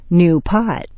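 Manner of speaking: "pot" carries the fall in "New pot"; intonation pattern demo. Shown as a demonstration. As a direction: stress "pot" after "New". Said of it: "The main intonation patterns".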